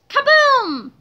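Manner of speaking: sudden high, loud burst; explosion boom. A narrator's reading. Explosion interrupts George's sentence.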